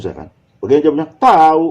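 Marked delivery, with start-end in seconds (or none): 1.1-1.7 "Tahu" drawn out high and loud; don't-know intonation. Shown as a demonstration. Youngster answering the question, "Tahu" as don't know. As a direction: stretch "Tahu" so it means no idea. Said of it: "itu kan jadi tidak tahu".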